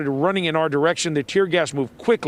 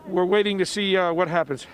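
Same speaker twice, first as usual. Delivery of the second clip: teary from tear gas; 2 semitones higher than usual. Real, not acted. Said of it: "it's just hitting us now".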